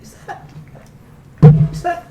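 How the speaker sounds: rising to a loud, high alarm; a shocked mother noticing blood. Acted.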